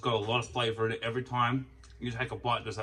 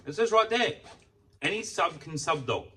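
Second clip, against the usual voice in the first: exasperated retort; 6 semitones higher, slower than usual. Retold or imitated. Vlogger retelling his protest to the Subway clerk, exasperated. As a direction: point at the sign, fed up. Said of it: "I'm like".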